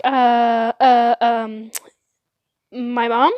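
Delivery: hesitant stammer rising to a question; scared stammer. Retold or imitated. Scared eight-year-old answering where she heard the word, nervous stammer. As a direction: stall with mock-nervous ums, then guess timidly. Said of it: "me being a really scared eight-year-old".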